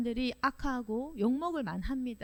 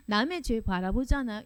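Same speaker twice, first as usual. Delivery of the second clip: ordinary talk, nothing marked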